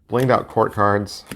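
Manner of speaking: slow, drawn-out delivery; slow talking. Real, not acted. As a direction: stretch the words out slowly. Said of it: "I'm talking slow today".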